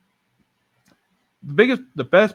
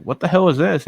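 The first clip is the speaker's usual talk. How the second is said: higher-pitched baffled question; retold confusion; 6 semitones higher than usual. Dad opens a puzzling gift bag, confused. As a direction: imitate a puzzled, half-awake father. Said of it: "like, confused, like".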